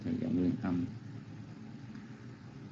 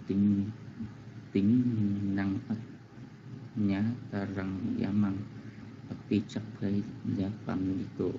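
rereading the verse; slower than usual. Acted. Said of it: "Dạ, em xin đọc lại".

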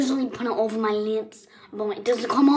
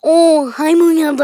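imitating mom; 5 semitones higher, 8 dB louder than usual. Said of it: "she's like".

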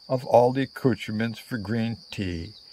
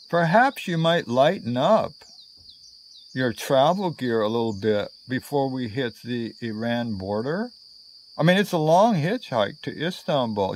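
diplomatic Londoner. Retold or imitated. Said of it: "she inquires diplomatically".

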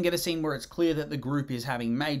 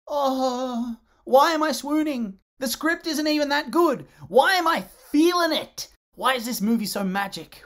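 giddy swooning; 8 semitones higher, 4 dB louder than usual. Real, not acted. Swooning over the romance.

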